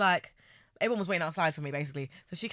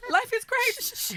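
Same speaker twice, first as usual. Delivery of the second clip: mock blissful; much slower than usual. Joking sigh after laughter.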